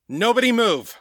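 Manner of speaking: high, desperate shout at the room; frantic shouting hostage taker. Acted. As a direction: bark the order with everything you've got. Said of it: "and shouted".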